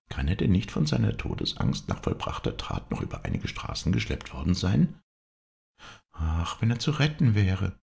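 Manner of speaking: wife anxious for the wounded man. Acted.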